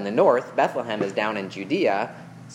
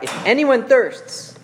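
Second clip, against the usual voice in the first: high, loud and slow call to the crowd; preacher's slow, high, loud call; crying out; 12 semitones higher, 6 dB louder, slower than usual. A narrator's reading. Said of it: "Jesus stood up and cried out".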